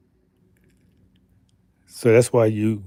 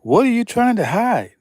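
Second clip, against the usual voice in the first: high accusing question; 11 semitones higher than usual. Retold or imitated. Asking speakers directly.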